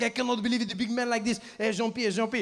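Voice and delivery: put-on French accent. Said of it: "the French guy turns to me".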